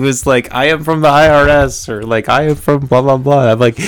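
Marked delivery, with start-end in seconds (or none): 0.5-1.9 imitated Asian-accented scammer, higher pitch; thick Asian accent. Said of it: "a really thick accent". 2.3-3.5 imitated Asian-accented scammer, higher pitch; thick Asian accent. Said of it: "a really thick accent".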